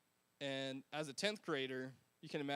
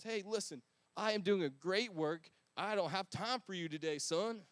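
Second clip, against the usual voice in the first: rude brush-off; 4 dB louder than usual. Shown as a demonstration. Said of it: "No, not like that. That's kinda rude".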